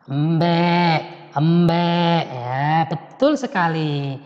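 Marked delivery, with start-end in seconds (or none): 0.1-2.2 goat bleat. Shown as a demonstration. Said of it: "wedhus munine piye?".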